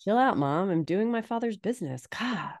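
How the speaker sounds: lightly voiced sulky teen; mock teenage angst. Son telling his mom to back off, mock teenage angst. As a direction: brush Mom off, dropping away on the last word. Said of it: "like, teenage angst or anything like that".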